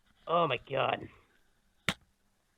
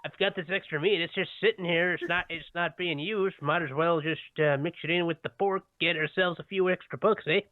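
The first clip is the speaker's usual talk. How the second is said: put-on lightly done Canadian accent; a hint of a Canadian drawl, eh. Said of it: "That was my terrible Canadian accent".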